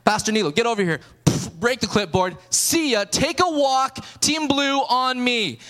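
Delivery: loud, high takeover orders; hammed-up coach barking commands; fired-up coach. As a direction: take charge loudly, stretching the final call. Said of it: "now I'm just fired up".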